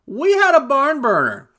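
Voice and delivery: loud, high burst of hype; excited. Real, not acted. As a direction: repeat it just as thrilled.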